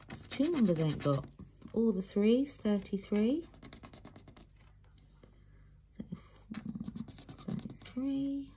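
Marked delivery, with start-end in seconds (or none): 1.7-8.5 bingo caller. Retold or imitated. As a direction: announce it like a bingo hall caller. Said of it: "from the bingo lingo".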